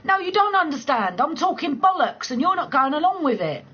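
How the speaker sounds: exasperated. Retold or imitated. Telling the bloke he's not keeping up, high exasperation. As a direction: push back at the dull bloke. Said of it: "And I'm like".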